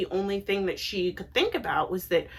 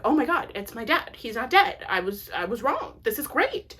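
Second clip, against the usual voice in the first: excited gasp of hope, raised pitch; surprised joy; 4 semitones higher than usual. Retold or imitated. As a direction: imitate a shocked, thrilled realization. Thinks he sees his dead dad.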